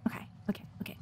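hushed, breathy repeated okays; quiet nervous okays. Real, not acted. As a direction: mutter them to calm yourself. Nervous again while climbing.

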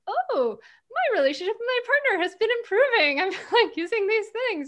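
high, quick, gushing mimicry; imitating excited members. Members telling the host about their partners, mimicked high and fast. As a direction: gush like a delighted new convert. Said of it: "these people in the Mindful Parenting membership are like".

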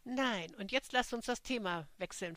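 a touch of annoyed snapping; understated irritated retort; mild snap. Acted. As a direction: cut the topic off, lightly testy. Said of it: "fauchte Jenny".

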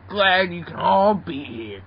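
slow, stretched words with a falling end; odd drawn-out talk. Acted. Grimer greeting the group, slow and peculiar delivery. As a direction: draw the greeting out oddly. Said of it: "why do you talk like that".

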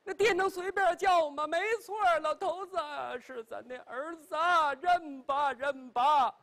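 wife pressing her husband to acknowledge their son, high and urgent; anxious old lady. Acted. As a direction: insist urgently that he must accept the son. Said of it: "老太太都急了".

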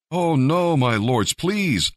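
high, pleading cry of no; begging. A narrator's reading. Lot begs the angels not to send him away, high pleading. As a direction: beg them, voice climbing high. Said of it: "Lot begged".

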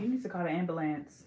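"ambulance" as AM-buh-lance; no y-glide, full -lance in "ambulance"; testing own pronunciation. Shown as a demonstration. Trying out what she says, testing own pronunciation. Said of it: "I think I say".

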